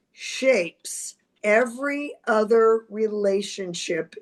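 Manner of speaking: slow, measured reading with pauses between phrases; quote reading. Real, not acted. Astrologer reading a favorite quote to viewers, slowly and deliberately.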